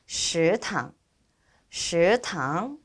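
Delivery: slow 食堂, both syllables rising; pronunciation model. Shown as a demonstration. Teacher introducing the word 食堂, careful model. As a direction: lift each syllable of 食堂 carefully. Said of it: "따라서 읽어보도록 하겠습니다".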